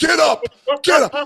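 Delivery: high, acted-out pleading, urging call. Retelling running to first base, retelling yelling at the ball. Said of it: "And I'm yelling at the ball".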